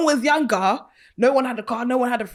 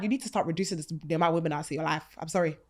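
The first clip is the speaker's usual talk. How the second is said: preachy; 5 semitones lower, 8 dB quieter, faster than usual. Real, not acted.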